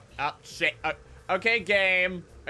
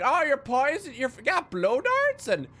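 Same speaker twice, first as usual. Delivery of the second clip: very high, excited questioning; hammed-up falsetto amazement; mocked eager copycats; 13 semitones higher than usual. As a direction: gush squeakily over the new trick. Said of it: "they're like".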